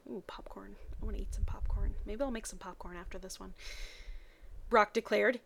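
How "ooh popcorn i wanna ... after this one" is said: whispered aside. Real, not acted. Reader craving popcorn aside.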